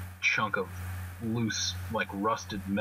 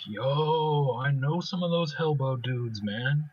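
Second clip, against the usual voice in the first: Spitter's voice; 6 semitones higher, slower than usual. Retold or imitated. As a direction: call it out like an eager street kid. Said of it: "Spitter's like".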